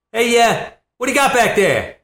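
high, loud Boston customer; really loud. Retold or imitated. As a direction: holler across the deli counter in a Boston accent. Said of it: "this guy just walks in really loud".

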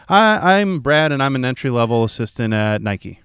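high, hesitant, almost apologetic; timid self-introduction. Retold or imitated. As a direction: introduce yourself like you're ashamed of the job title. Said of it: "What do you think they say?".

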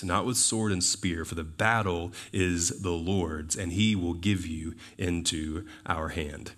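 measured, solemn reading of David's speech; scripture reading. Acted. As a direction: read it as a declaration, slowing toward the end.

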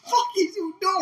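high, loud, disgusted yell; disgusted outburst. Retold or imitated. Friend imagining seeing the teeth taken, disgusted high yell. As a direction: yell at him in disgust like you're there. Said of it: "I'd be like".

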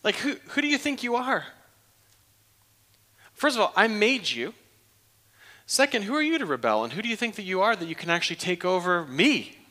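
mock the tiny rebel; incredulous scoff. Pastor voicing a maker scoffing at his rebelling toy. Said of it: "you'd say".

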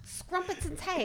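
high, slow silly Cockney; mock Cockney accent. Joking after being teased, mock Cockney accent. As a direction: mangle it in a cartoon London accent. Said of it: "do a Cockney accent".

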